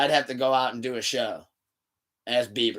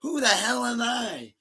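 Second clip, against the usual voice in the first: high, slow bewildered cry; confused shout; 9 semitones higher, slower than usual. Retold or imitated. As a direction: ask it lost and stunned. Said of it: "He's like".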